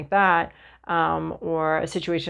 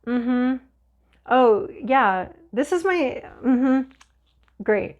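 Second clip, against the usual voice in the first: sassy, snarky; 3 semitones higher, slower than usual. Pretend. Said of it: "you're a little sassy and snarky here".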